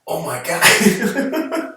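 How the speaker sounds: man seeing the lion feed the wolf, drawn-out awe; awestruck. Retold or imitated. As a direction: stretch it out in stunned wonder. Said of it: "so he's like".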